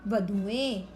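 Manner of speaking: वधुएं with a short u, then ए added; short u sound. Shown as a demonstration. Teacher showing students the plural sound, वधुएं slow with short u. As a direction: draw out वधुएं slowly, short u before the ए. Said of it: "छोटे उ की sound आ जाएगी".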